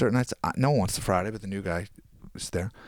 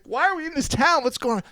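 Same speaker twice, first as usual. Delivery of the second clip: imitating crying wife. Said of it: "She's crying".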